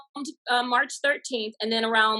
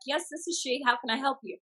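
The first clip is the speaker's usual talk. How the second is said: a lightly put-on proper, softer phone voice; composed phone voice; 2 semitones higher, 6 dB quieter than usual. Answering the English caller, put-on polite and softer. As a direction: get it together and sound proper and polite. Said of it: "I got myself together".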